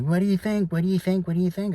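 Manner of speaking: hammed-up mom fishing for praise; imitating mom. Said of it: "she's like".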